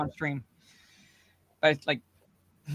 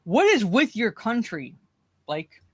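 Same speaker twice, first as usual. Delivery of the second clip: mock exasperation; 4 semitones higher, slower than usual.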